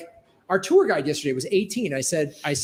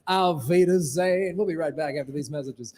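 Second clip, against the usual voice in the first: lightly voiced Las Vegas lounge crooner, hammed-up; mock showman signing off with a bow; a singer's lounge act. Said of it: "It was Wayne Newton started there".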